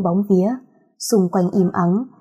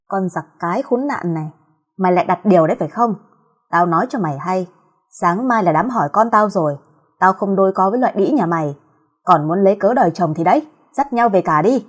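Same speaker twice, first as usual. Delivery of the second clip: furious scolding. Acted. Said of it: "gào lên chửi".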